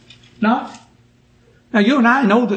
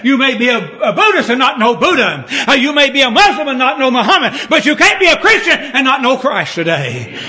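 raised, insistent sermon voice; impassioned preaching; 4 semitones higher than usual. Real, not acted. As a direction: press the point home to the congregation.

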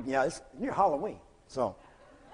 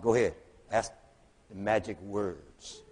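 hushed prompt; 8 semitones lower, 8 dB quieter than usual. Retold or imitated.

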